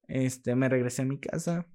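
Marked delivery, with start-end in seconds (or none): none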